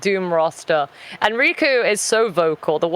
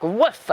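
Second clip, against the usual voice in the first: small huffy woof; short spoken bark; imitated dog woof. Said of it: "the Labrador will be like".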